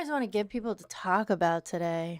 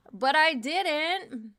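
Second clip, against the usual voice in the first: slow and louder; slow emphatic; 6 semitones higher, 4 dB louder, much slower than usual. Acted. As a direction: lean on each word slowly. Repeated right after.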